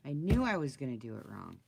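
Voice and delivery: ordinary talk, nothing marked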